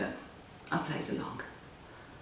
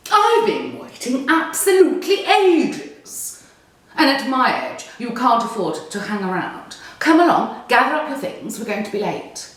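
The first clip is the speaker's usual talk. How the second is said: put-on posh old lady; 4 semitones higher than usual. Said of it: "She's a bit posh".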